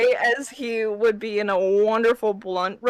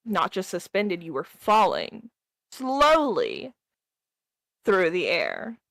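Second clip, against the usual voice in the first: game master narration. Acted. DM narrates scene.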